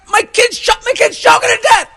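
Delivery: frantic dad shouting for help; panicked father shout. Acted. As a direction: scream it like your kid is choking. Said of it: "And he's like".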